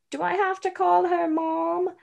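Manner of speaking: put-on high child voice, Scottish accent; young girl with a Scottish accent. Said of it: "your child Scottish accent".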